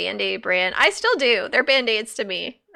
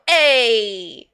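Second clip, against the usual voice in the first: put-on Jersey accent; 4 dB louder than usual. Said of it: "did he have a heavy Jersey accent".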